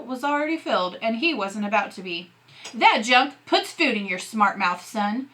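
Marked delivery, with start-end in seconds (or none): 2.7-5.3 angry. Acted. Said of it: "His dad's eyes were lit up with anger".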